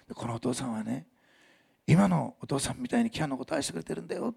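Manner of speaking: soft, tender explanation; teacher kneeling to comfort a boy; gentle talk to a child. Retold or imitated. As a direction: speak softly to a hurting child.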